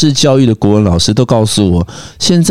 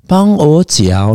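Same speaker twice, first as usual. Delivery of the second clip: slow dictation; 3 semitones higher, much slower than usual. Retold or imitated. Mother dictating slowly.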